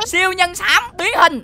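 slow, drawn-out superhero call; heroic transformation call. Shown as a demonstration. Superhero showing Sammy how to transform, heroic call. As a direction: stretch it out like a summoning chant. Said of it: "kêu vậy nè".

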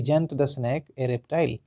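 slow, stress on "Isn't", rising end; question model. Shown as a demonstration. Teacher models a question for learners, slow rise. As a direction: read it slowly, lifting at the end. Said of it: "एक question मैंने यहाँ लिया है".

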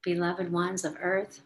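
dreamy spoken meditation; guided meditation. Acted.

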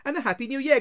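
high, lilting farewell; cheery parting call. A narrator's reading. Nephew leaving his angry uncle, cheery call. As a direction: call it back merrily.

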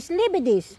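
careful German "Ich liebe dich" said for a learner; German model phrase. Shown as a demonstration. Teaching a child to say it in German. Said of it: "Sag, ich liebe dich".

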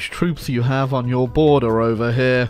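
heavy sarcasm, mock worry; sarcastic. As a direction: pretend to be scared, dripping irony. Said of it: "Can you sniff the sarcasm in my voice".

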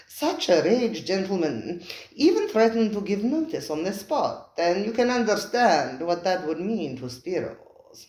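lightly voiced, suave host; smooth restaurateur Spiro. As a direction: slide in smoothly, amused.

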